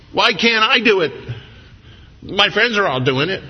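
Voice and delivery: high-pitched imitation of a complaining child; mock a kid's indignant plea; protesting kid. Kids asking parent why they can't, mock protest.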